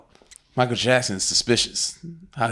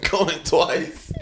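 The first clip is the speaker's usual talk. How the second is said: auctioneer voice; 7 semitones higher, slower than usual. Pretend. Mock auction call.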